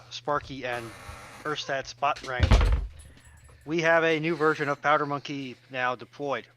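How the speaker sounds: normal talking voice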